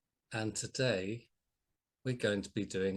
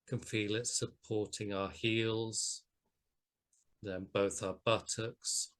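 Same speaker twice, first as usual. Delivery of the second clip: unhurried body scan guidance, long pauses; guided meditation. Acted. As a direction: guide listeners gently through the body, leaving space between phrases.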